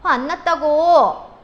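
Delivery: loud, drawn-out, high insistence; irritated outburst. Acted. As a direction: snap that you're not angry, clearly angry. Girlfriend snaps when pressed. (화 안 났다며 버럭 짜증)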